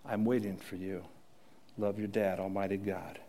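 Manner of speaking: earnest, even reading of a loving father's letter; heartfelt letter reading. Acted. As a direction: read it as a father speaking gently to his child. Reads a letter in God's voice.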